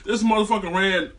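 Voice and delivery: can't hold back a laugh at the blunder. Real, not acted. Fan laughing at the defender running past, laughing.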